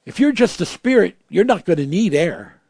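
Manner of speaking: high, loud challenge; heated preaching. Real, not acted. Preacher challenging the congregation, high and loud. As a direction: fire the question out high.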